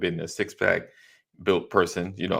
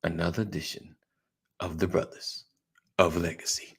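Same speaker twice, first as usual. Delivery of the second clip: fighting game announcer; 4 dB quieter than usual. Acted. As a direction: stretch it out like a fight intro. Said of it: "Working on, working on my announcer voice".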